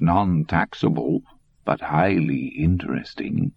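put-on old man gloating calmly; smug old German. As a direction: explain it like a pleased schoolmaster.

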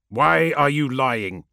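slow, drawn-out accusation; a lord slowly demanding an answer; mild, heavy reproach; accusing. Acted. Magnus accuses Ammon.

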